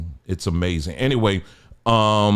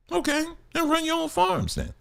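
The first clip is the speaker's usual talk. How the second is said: softer, higher echo; 6 dB quieter than usual. Shown as a demonstration.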